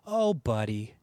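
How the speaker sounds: low, drawn-out "Oh, buddy" with a sympathetic sag; a low, pitying "Oh, buddy"; condescending buddy. Shown as a demonstration. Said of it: "not as condescending as I make it sound".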